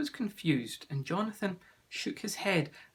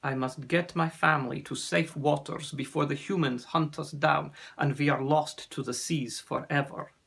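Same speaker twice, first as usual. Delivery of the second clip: put-on accented, measured storyteller; grave sea serpent; 5 dB louder than usual. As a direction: tell the danger gravely, with a lightly voiced foreign accent. Narrator plays Ossian, sea serpent.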